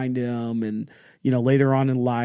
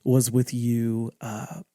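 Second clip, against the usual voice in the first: halting, tentative retold question; struggling hesitation. Child asking dad about missing medals, hesitant. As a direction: stall and restart, easing into the question. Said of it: "I'm struggling to get this out".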